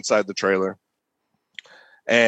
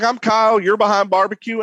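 higher-pitched proud introduction; stage announcement; 8 semitones higher than usual. Retold or imitated. Cook introduces himself on the championship stage, retold announcement. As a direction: reenact announcing yourself to a crowd.

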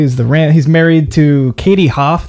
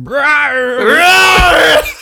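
drawn-out, high monster shout; monster impression; 12 semitones higher, 5 dB louder than usual. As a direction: roar it out like a monster. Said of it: "we should do our best monster impersonation".

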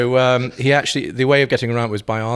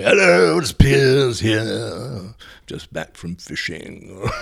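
Piers voice; 5 dB louder, much slower than usual. Retold or imitated. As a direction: drawl it out like a country gent. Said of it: "I used to phone my boss and say".

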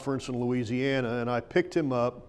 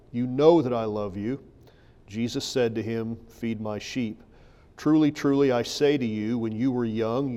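measured Bible reading with lightly stressed key words; understated pulpit reading of dialogue; scripture reading. Acted. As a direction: read the passage aloud to a congregation.

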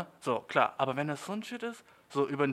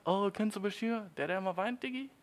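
tratschende Leute; 6 semitones higher than usual. Acted. Voices people gossiping about him.

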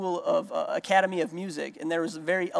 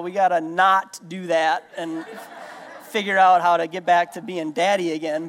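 laughing; 4 dB louder than usual. Real, not acted. Amused dad retelling reply.

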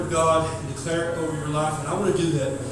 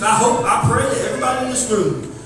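preacher voice; 4 semitones higher, 5 dB louder than usual. Shown as a demonstration. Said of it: "That's my preacher voice".

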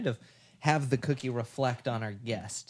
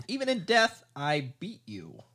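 mocking note voice; 4 semitones higher than usual. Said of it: "It says".

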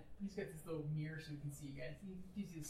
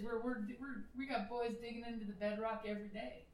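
bright, welcoming tour guide; 2 semitones higher than usual. Acted. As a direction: sell the station like a guide. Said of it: "you can almost hear the tour guide voice start up".

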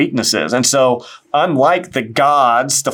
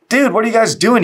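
higher, exasperated scolding voice, a light mock; mock annoyed shepherd; 9 semitones higher, faster than usual. Shepherd scolding straying sheep, mock exasperated. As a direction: play an irritated shepherd calling out the sheep. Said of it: "the shepherds isn't like".

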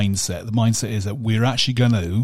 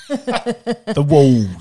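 "The walls." said laughing, higher and louder; 5 semitones higher, 5 dB louder than usual. Pretend. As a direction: tease her with "The walls." through a laugh. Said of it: "have me say wall".

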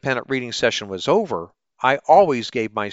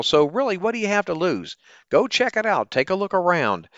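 bright upbeat ad pitch, higher; chipper 1950s ad; 3 semitones higher than usual. Acted. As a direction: sell it like an old radio ad. Sponsor ad read.

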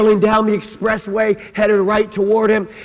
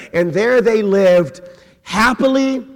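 ordinary talk

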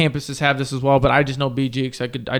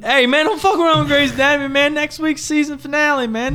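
mock outrage; 11 semitones higher than usual. Mock defending Grey's Anatomy.

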